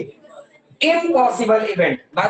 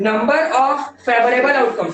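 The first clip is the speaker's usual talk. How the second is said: slow and deliberate, word by word; teacher dictating the definition; slow dictation; much slower than usual. Shown as a demonstration. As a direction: read it out so they can copy it. Teacher restating formula for class.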